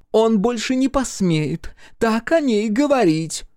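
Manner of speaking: high, emphatic, slow-paced outrage. A narrator's reading. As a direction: raise the voice and forbid it. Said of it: "Бренда резко повысила голос".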